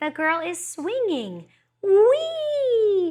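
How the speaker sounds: very high, slow rising, drawn-out sing-song "wee". Showing how to read a picture book to a baby: voice going up to high pitch. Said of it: "have your voice go up to a high pitch".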